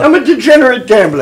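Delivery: stage Irish leprechaun; Irish accent. Acted. Player takes on the leprechaun role, in Irish accent. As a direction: announce yourself in an Irish lilt. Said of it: "I can do an Irish voice".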